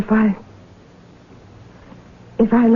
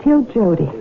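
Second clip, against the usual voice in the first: story narration; 3 semitones lower than usual. Acted. Jenny recalling her drifting years, reflective narration.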